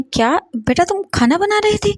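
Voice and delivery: can't believe it; surprised father. A narrator's reading. Father hearing his son was cooking, surprised. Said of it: "तब वो बोलते हैं".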